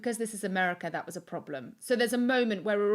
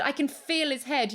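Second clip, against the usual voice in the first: higher, slower urgent line; urgent report; 6 semitones higher than usual. Retold or imitated. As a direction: press it with urgency. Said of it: "And I said".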